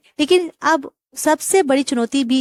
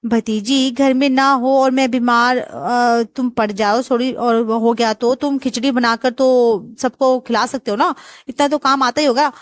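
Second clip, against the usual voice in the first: nosy aunt questioning the groom; bossy aunt; 3 semitones higher than usual. Acted. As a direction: grill the boy like a nosy aunt.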